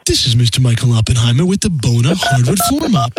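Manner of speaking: stiff Max Headroom-style pitch; robot voice. Acted. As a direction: read it like a glitchy TV robot. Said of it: "like a Max Headroom".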